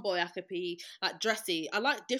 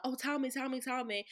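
higher, wheedling retold plea; pressuring; 5 semitones higher, 3 dB quieter than usual. Friend pressing people to reveal the surprise, pleading. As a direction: pester them in a raised pitch. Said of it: "pressure people".

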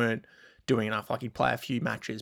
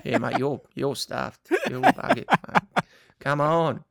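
Lleyton Hewitt; 2 semitones higher than usual. Retold or imitated. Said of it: "Lleyton's like".

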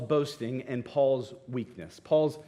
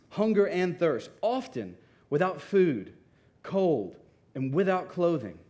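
emphatic reading, each item set apart; dramatic scripture reading. Acted. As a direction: read the list of hardships with measured weight. Reads scripture aloud with weight.

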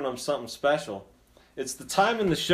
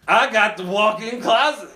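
excited claim; 7 semitones higher, 6 dB louder than usual. Retold or imitated. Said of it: "So I'm like".

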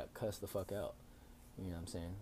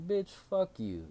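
high, louder mock outburst; retold angry curse; 11 semitones higher, 5 dB louder, much slower than usual. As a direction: curse them out, voice jumping up. Retold cursing at old lady.

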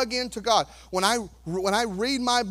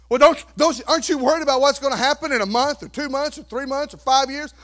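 higher, louder, fast worried questioning; anxious doubter; 4 semitones higher, 5 dB louder, faster than usual. Pretend. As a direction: needle the calm believer. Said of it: "imagined doubter questions".

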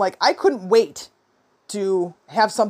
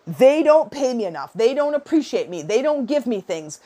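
lightly acted negative griping, slightly raised; mock complaining; 3 semitones higher than usual. Showing listeners how negative talk sounds, mock complaining. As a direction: imitate someone listing complaints. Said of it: "complain, complain, complain".

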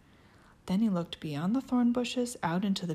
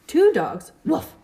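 yappy chihuahua voice; 13 semitones higher, 10 dB louder than usual. Acted. Barking dogs voiced.

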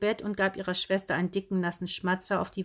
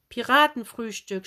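beaming; 3 semitones higher, 5 dB louder than usual. Acted. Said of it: "strahlte Tante Heidrun".

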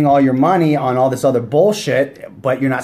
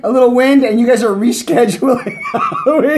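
mocking; 11 semitones higher than usual. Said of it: "They're like".

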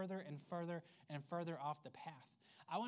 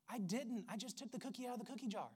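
put-on toddler excuse; 5 semitones higher, faster than usual. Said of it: "like arguing with your toddler".

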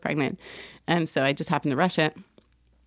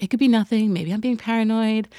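imitated reassurance, raised and louder; trying to be nice; 5 semitones higher, 3 dB louder than usual. Doctor downplaying worry to patient, trying to be nice. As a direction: play a doctor softening bad news. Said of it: "trying to be, like, really nice".

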